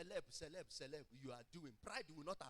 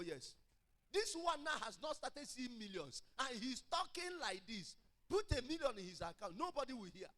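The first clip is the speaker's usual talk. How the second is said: impassioned preaching; 5 semitones higher, 7 dB louder than usual. Real, not acted. Preaches at raised force.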